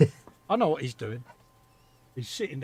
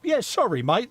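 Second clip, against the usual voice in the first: sarcastic apology; 7 semitones higher, 6 dB louder than usual. Acted. Mock apology to chat viewer.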